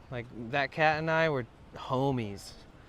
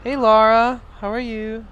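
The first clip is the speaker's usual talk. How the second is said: bright sing-song hello to a viewer; cute high greeting; 8 semitones higher, 10 dB louder than usual. Real, not acted. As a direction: perk up the voice way high for a friend. Greeting chat member in cute voice.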